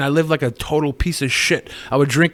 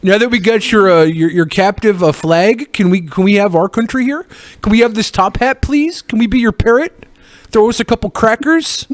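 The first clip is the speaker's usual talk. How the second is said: mock begging; 6 semitones higher than usual. Mock pleading to Britain.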